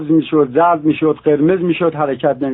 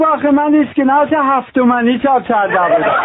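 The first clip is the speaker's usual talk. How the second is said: punchline delivery; 8 semitones higher than usual. Acted. Punchline of counterfeiter.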